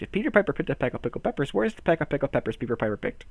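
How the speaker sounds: quick, rattling recitation; fast tongue twister. Pretend. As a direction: speed through the twister in one go. Racing through a tongue twister.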